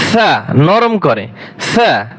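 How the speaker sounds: সা with the tongue tip at the upper teeth, a soft th sound; soft lisped সা like English th. Shown as a demonstration. Teacher showing students the soft Arabic সা, said slowly. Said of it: "সা হরফ নরম করে পড়বেন".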